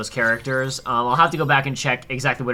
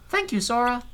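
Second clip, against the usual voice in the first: Piglet voice; 10 semitones higher than usual. Retold or imitated. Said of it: "I can't do a Piglet voice".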